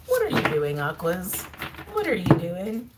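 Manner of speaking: a hint of playful Southern US accent. Real, not acted. Card reader asking Aquarius what they're cooking, lightly Southern accent. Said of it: "I don't know why I got Southern for a second".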